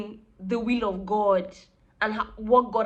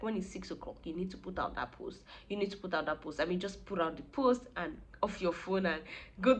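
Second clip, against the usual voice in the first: softer, calm friend voice urging her on; gentle encouragement; 3 dB quieter than usual. Retold or imitated. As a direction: reassure a scared friend quietly and firmly.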